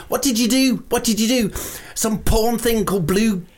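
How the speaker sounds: indignant, high-pitched jab; scornful challenge. Acted. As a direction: taunt the has-been about their career. Guest belittles host's past career.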